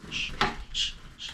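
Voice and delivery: soft hushing; shushing. Real, not acted. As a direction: hush it gently. Hushing the bird.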